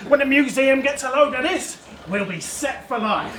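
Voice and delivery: lightly voiced old-fashioned archaeologist; a hint of period-comedy explorer; archaeologist character. Acted archaeologist talking to his assistant.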